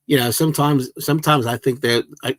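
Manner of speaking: joking attempt at a Liverpool band accent. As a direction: put on a mock Liverpool band-member voice. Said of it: "I'm doing the Beatles accent".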